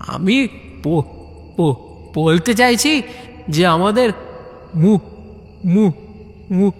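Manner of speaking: stuttering on the first sounds; stammering again. Acted. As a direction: keep stumbling over the syllable. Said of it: "আবার মুমু করে". (আবার তোতলানো)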